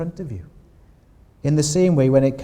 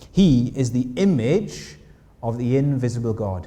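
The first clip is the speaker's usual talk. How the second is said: slow, deliberate reading of the verse; slow scripture reading. Shown as a demonstration. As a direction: read each word of the verse slowly, letting it land. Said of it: "we're told this".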